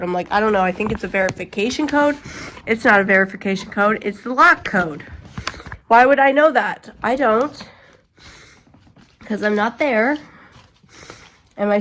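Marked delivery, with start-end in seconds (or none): 0.3-10.2 loud, exasperated protest; frustrated venting. Real, not acted. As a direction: push it out, fed up with the mix-up. Venting about the code confusion.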